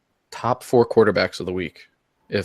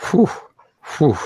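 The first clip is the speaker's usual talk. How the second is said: winded exhale; 8 semitones higher, 4 dB louder than usual. Pretend. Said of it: "I'm almost out of breath".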